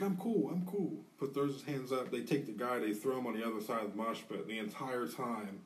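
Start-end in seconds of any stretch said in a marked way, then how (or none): 0.0-0.9 high-pitched "back off, I'm fine" voice; quick placating protest, pitched up; imitated hasty reassurance. Tony getting up after the fight, retold, placating. Fighter assures others he's calm.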